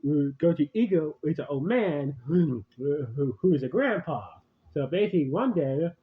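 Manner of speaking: talking while crunching chips. Real, not acted. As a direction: mouth full, chewing between words. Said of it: "sorry about the crunching sound".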